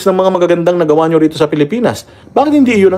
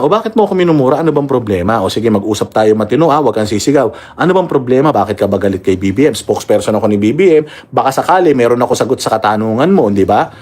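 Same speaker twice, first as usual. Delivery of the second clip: calm reasonable reply; 4 semitones lower than usual. Pretend. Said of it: "tatanungin mo na".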